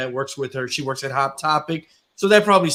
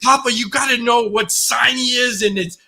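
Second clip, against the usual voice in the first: imitating his daughter; 6 semitones higher than usual. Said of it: "She's like".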